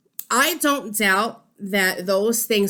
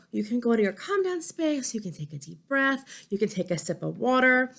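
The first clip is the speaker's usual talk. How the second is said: soft calming prompt; 3 dB quieter than usual. Shown as a demonstration.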